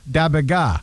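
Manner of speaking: slurred "Da bit ga"; imitating teen's mumbled accent. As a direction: mumble it like the teen. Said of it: "he says".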